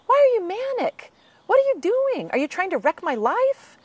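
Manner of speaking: high, loud accusing mock rant; accusing friend. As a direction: scold like someone whose life you're wrecking.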